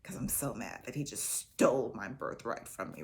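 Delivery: hushed fast mock threat; whispered threat. Brother Esau plotting against Jacob, whispered fast. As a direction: whisper the plan to kill like a plot. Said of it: "like Cain and Abel".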